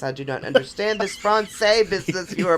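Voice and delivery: lightly imitated French accent; mild mock French-accented English. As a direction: retell it with a hint of a French accent. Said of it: "he's saying it in a French accent".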